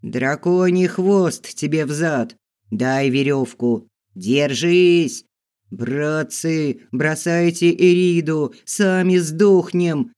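loud rough yells; shouting. Acted. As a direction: bark it over the chaos. Men shouting in chaos.

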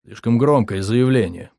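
ordinary delivery, nothing marked

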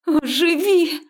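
high, loud snapped command; angry growl. Acted. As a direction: growl the order at him. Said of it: "зарычала я на него". (злой рык, высоко и громко)

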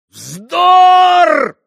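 outraged shriek of denial; yelling Mitya. A narrator's reading. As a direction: explode at the accusation. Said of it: "завопил он вдруг".

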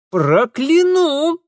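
slow, loud menacing threat; threatening. A narrator's reading. Darinka threatening the stubborn girl, slow and loud. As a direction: curse her slowly. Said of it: "угрожающе прищурилась Даринка".

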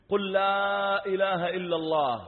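loud, high, stretched-out plea; urgent prompting. Retold or imitated. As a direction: urge a dying man to repeat it. Urging dying youth to testify.

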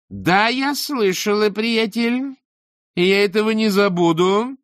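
high, loud threatening rage; seething threat; menacing fury. Acted. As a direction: promise revenge through the teeth. Beril threatening after insult.

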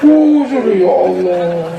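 slow, sighing, fed-up groan; exasperated wife. Retold or imitated. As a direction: drag it out like a worn-out mother at her limit. Wife fed up with husband's nagging.

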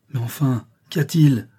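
a sudden, baffled outburst; startled exclamation. Acted. Don Blas, confused by Harry's cry, asks what is wrong with startled alarm. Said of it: "s'écrie Don Blas, interdit".

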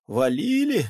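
loud, bitter "Валили?" with a falling tune; bitter echo. A narrator's reading. Pakhom bitterly repeating the peasant's word: loud, aggrieved. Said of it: "с горечью переспросил Пахом".

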